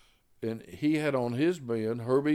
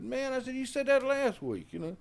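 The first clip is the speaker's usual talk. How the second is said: retold complaint; 11 semitones higher than usual.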